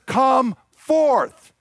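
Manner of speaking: commanding call. Retold or imitated. Jesus commands Lazarus from tomb.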